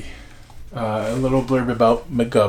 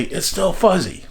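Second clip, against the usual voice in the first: higher-pitched mock call; retold yell; 7 semitones higher than usual. Mother relays the answer up to father, mild mock yell. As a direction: imitate mother calling up to the roof. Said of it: "she would yell up to my father".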